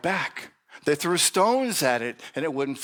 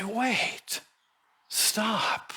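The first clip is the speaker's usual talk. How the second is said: firm call to stop; 9 semitones higher than usual. Shown as a demonstration.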